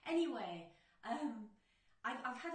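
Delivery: shouting. Real, not acted. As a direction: boom it out like Brian Blessed. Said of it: "I'm going to just shout".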